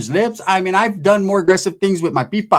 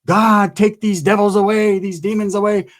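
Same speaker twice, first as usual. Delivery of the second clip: lightly voiced preacher casting out demons; mock preaching; 4 semitones higher than usual. Preacher dad praying over the fighting daughters, mock sermon. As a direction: raise it up like a pulpit prayer. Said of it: "They're preaching".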